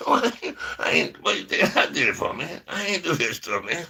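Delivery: high mock protest; protesting innocence. Acted denial of eating cookies.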